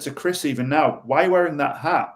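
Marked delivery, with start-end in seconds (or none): 1.1-2.1 a mildly pointed, challenging why; a light accusation over the hat; accusatory question. Shown as a demonstration. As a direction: quiz him as if the hat is a problem. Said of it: "it's very accusatory".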